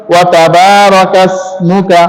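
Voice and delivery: ইসমুকা with a crisp, hissed s, slow recitation; clear sin sound. Shown as a demonstration. Teacher stressing the sin letter, slow clear recitation. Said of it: "সিনটা ভালো করে".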